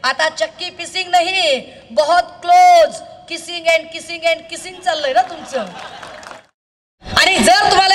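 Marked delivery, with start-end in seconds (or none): 0.0-5.7 slow, laughing jeer that stretches each kissing; mocking taunt. Rally speaker taunting Fadnavis over his alliance, slow laughing mockery.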